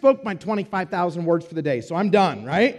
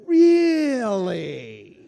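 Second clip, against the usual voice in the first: loud passenger voice; 5 dB louder than usual. Retold or imitated. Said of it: "That same voice, loud".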